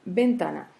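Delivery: ventana with the middle "ta" stressed; stress on penultimate syllable. Shown as a demonstration. Teacher gives a paroxytone example, stress on ta in ventana. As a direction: lean on "ta" in ventana. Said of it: "l'avant-dernière syllabe".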